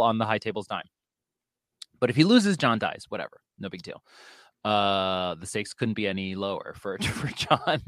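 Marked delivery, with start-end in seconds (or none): 2.0-4.0 sarcastic. Real, not acted. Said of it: "I'm being sarcastic". 5.4-7.8 dry, understated sarcasm; sarcastic. Real, not acted. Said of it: "I'm being sarcastic".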